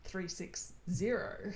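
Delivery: slow, deliberate digit-by-digit reading; pedantically measured, every digit separate; pedantic. Shown as a demonstration. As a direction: spell out the phone number slowly and pointedly. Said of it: "which is very, uh, pedantic of me".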